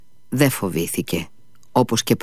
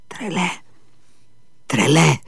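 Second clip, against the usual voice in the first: howled; 6 semitones higher than usual. Acted. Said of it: "ούρλιαξε".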